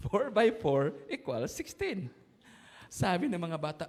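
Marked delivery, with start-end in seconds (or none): 0.1-2.1 slow, laughing through the line; laughing punchline. Acted. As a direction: deliver the joke chuckling.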